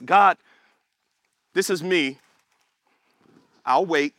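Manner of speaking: low, unhurried calm; calm patience. Acted. God waiting on his child, calm and patient. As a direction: wait it out with long pauses. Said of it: "And that's God's patience".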